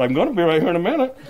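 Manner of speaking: fast, laughing quote; rushing the line with laughter; laughing through it. Retold or imitated. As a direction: laugh the words out quickly. Laughing retelling of his reply.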